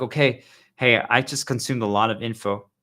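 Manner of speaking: loud, bright imitation of a friend; chirpy greeting voice; mock casual chat. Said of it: "we even talk like this".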